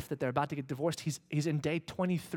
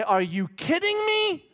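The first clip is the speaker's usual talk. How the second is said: much higher and louder, slow; wife's retort; 8 dB louder, slower than usual. Pretend. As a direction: answer as the proud wife. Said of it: "she will look you in the eye and say".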